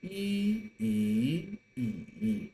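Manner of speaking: 一 falling sharply each time; 一 repeated as a falling yì; fourth tone yì. Shown as a demonstration. Teacher drills the fourth tone yì for students. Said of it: "As the fourth tone".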